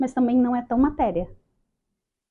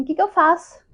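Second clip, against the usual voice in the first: bewildered; 8 semitones higher, 6 dB louder than usual. Retold or imitated. Lost newcomer asking what to do.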